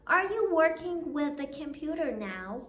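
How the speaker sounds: slow, rising yes-no question, voice up at the end; rising question tune. Shown as a demonstration. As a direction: model the rising tune slowly for the class. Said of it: "با هم دیگه بخونیم ببینیم چی میشه". (آهنگ سؤالی خیزان، آهسته)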